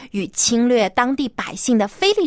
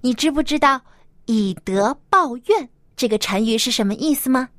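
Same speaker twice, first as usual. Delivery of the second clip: put-on bright host voice for kids; reading to a toddler. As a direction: talk gently to little children. Host talks to children.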